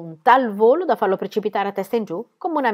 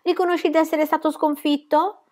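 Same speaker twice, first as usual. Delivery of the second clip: exclaiming; 9 semitones higher than usual. A narrator's reading.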